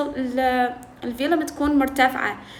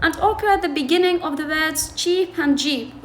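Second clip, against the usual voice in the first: slow, careful read of these are called affricates; reading the textbook aloud; much slower than usual. Shown as a demonstration. Teacher reading the textbook to students, slow and careful. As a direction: read the English line slowly for the class. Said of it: "هسه يقول".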